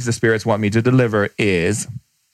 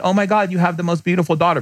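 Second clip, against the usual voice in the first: gushing stranger; 6 semitones higher, faster than usual. Retold or imitated. Stranger praising the child.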